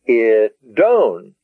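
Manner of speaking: "I, don" leaning on DON; short "I", then stretch and accent "don"; accent on last syllable. Shown as a demonstration. Teacher repeating "I, don" to show the accent, on last syllable. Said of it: "the accent is on the own".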